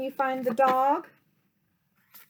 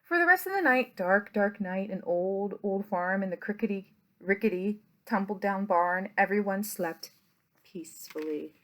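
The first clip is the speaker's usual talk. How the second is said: lower, lulling bedtime lines; 3 semitones lower than usual. A narrator's reading. Closing the bedtime story to the children, lulling. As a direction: wind the story down to sleep.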